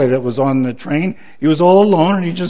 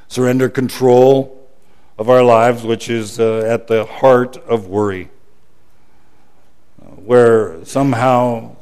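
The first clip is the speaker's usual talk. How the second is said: prayer; 3 semitones lower than usual. Acted. Leads closing prayer.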